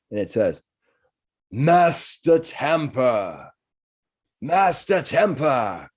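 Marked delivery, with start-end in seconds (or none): 1.5-3.5 slow, drawn-out booming call; booming cat voice. Acted. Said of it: "a booming voice echoes from the cat's mouth". 4.4-5.9 slow booming call, pitched higher; booming cat voice. Acted. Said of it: "a booming voice echoes from the cat's mouth".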